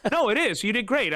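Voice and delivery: words broken by a real laugh; amused laugh at a friend's answer. Real, not acted. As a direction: laugh through the line while teasing. Still laughing at co-host.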